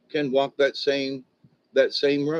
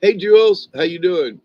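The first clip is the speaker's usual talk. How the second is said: Donald Duck; 6 semitones higher, 9 dB louder than usual. Retold or imitated. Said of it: "I could do Donald Duck".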